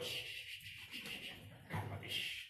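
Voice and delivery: put-on whispered shushing to a hurt child; soothing shush. Calmando a un niño herido. (susurro tranquilizador a un niño)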